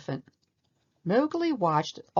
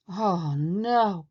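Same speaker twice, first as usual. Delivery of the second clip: groaning; 3 dB louder than usual. A narrator's reading. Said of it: "Bagheera groaned".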